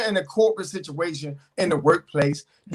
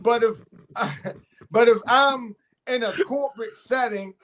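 ordinary delivery

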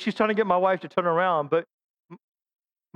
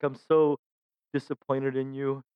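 disappointed God; 8 semitones lower, 4 dB quieter than usual. Retold or imitated. God's imagined disappointed look.

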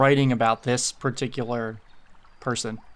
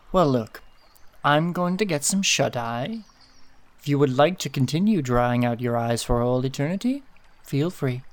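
unbothered Eliel. Acted. Eliel telling Tedward she is going to sleep, dismissive. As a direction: let the pitch swoop, then drop off indifferently. Game master plays Eliel.

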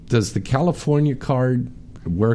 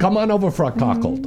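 playful promo voice; 7 semitones higher than usual. Pretend. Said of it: "you'll say".

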